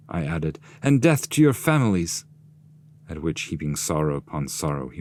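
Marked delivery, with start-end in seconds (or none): 0.8-2.3 high, louder cutting reply; curt retort. Acted. Dante curses the shade's families, raised retort. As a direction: throw the curse back at him.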